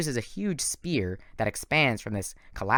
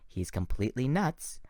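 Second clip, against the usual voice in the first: whispered; 5 dB quieter than usual. Acted. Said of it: "Bianca whispered to me".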